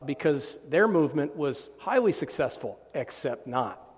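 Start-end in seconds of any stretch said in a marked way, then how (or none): 2.9-3.9 dry, softer throwaway undercut; deadpan put-down tossed off quietly; sarcastic aside. Real, not acted. Preacher mocking the movement's success, dry and sarcastic.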